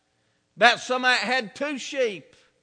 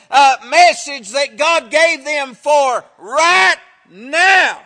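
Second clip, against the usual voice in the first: forceful preaching. Acted. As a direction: hammer the point home from the pulpit.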